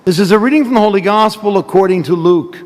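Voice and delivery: solemn proclaimed gospel reading. Real, not acted. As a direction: proclaim it from the pulpit. Priest proclaims the gospel at Mass.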